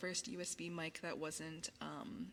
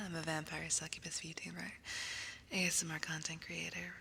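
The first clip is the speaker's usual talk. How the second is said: whispering. Acted. ASMR whisper.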